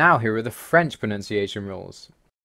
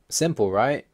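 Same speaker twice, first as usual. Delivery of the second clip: mildly sarcastic "as if it were easy"; understated sarcasm. Real, not acted. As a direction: pose it as a dry, ironic question. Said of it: "Yeah, I'm being sarcastic".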